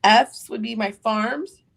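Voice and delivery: talking through hiccups; hiccuping. Real, not acted. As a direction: hiccups catching between words. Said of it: "sorry, I have hiccups".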